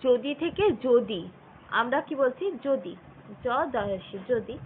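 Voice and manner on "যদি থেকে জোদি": যদি said slowly, then যদি again with the অ turned to ও as in জোদি; slow demo pronunciation. Shown as a demonstration. Teacher slowly showing students how যদি is really said. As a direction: deliberately sound out যদি both ways. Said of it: "যখন উচ্চারণ করছি তখন দেখো".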